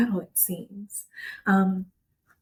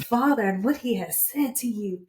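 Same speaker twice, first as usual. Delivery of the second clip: preaching; faster than usual. Real, not acted. Friend preaching back to her.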